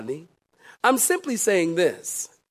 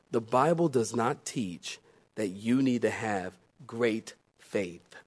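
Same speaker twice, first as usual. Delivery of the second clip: softer and much lower, confiding; hushed secret; 10 semitones lower, 8 dB quieter than usual. Acted. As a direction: say it like a secret just between us. Secret then repeated aloud.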